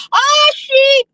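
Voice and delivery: high, delighted squeal at sheep; excited squeal. Real, not acted. Driver spotting sheep on a country road, squealing with delight. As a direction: squeal with joy at the animals. Excited at seeing farm animals.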